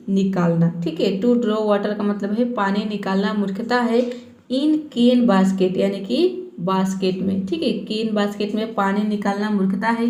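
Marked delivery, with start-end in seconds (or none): 4.5-5.8 very slow, careful English reading; slow reading aloud. Shown as a demonstration. Teacher reading the phrase to students, very slowly. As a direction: read each word slowly for learners. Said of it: "reads story line slowly".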